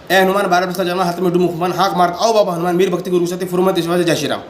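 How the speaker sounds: steady, even devotional chant; mantra recitation. Acted. Reciting the Hanuman mantra a sister asked to hear, steady chant. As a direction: recite the mantra in one unbroken run.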